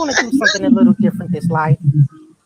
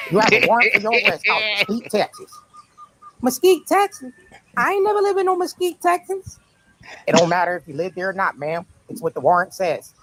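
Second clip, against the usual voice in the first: officer voice. Acted. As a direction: play a brisk arresting cop. Acting the officer.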